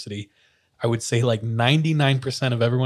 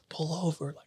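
higher-pitched mock yell, held down in volume; muted, raised-pitch retold shout; retold screaming; 5 semitones higher, 5 dB quieter than usual. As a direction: imitate yelling from another car without full volume. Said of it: "They're screaming at my dad and his friends".

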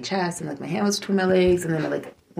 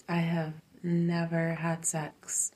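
slow, breathy whisper; hushed secret admission; 9 dB quieter, slower than usual. Real, not acted. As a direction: confide it softly, slowly. Confiding a private wish.

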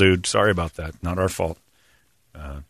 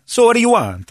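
mock stylist; 11 semitones higher, 4 dB louder than usual. Stylist voiced in retold story.

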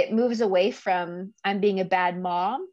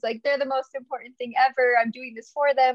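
retold tearful plea; 5 semitones higher than usual. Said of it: "crying and bawling on the phone".

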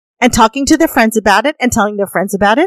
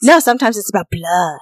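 low, sly tease; teasing deadpan; 4 semitones lower than usual. Real, not acted. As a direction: drop it with a wicked deadpan. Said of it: "the look on her face when she said".

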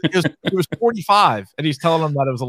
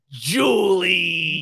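imitated calling out; 2 semitones higher than usual. Imitates husband calling out to Julie.

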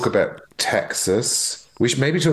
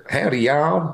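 tentative, higher-pitched Texan greeting; attempted Texas accent; 6 semitones higher, slower than usual. Shown as a demonstration. Asked to do the accent, guest tries a vague Texas accent. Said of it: "Can you do a Texas accent".

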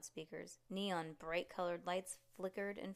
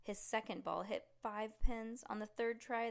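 plain reading voice

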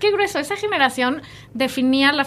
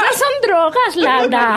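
mock prude; 5 semitones higher, 4 dB louder than usual. Mock prudish scolding.

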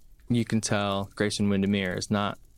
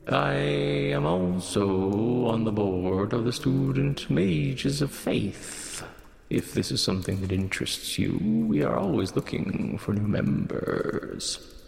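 sing-songy voice. Acted. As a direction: lilt it like a chant. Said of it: "Almost sing-songy voice".

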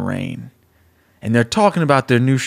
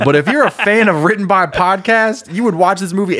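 laughing, louder and higher pitch; excited; 7 semitones higher, 4 dB louder than usual. Real, not acted. Host hyping his fan-service movie to cohost, excited shout.

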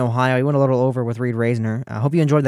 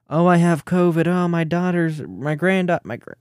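half-hearted impression, raised pitch, falling apart; Mike DeWine; 4 semitones higher than usual. Host mimicking governor dodging an event, faltering impression. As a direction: imitate a politician making feeble excuses, then falter. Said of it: "the DeWine impression".

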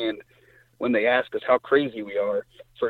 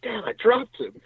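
excited son; 11 semitones higher than usual. Retold or imitated. Son excitedly reports his kill.

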